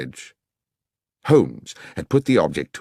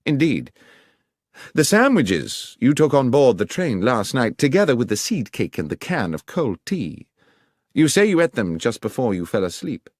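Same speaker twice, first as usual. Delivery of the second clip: higher, louder, brisk detective in command; a lightly voiced, assured Holmes; Holmes giving orders; 6 semitones higher, 3 dB louder than usual. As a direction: instruct the inspector like a confident Holmes. Holmes cross-examining.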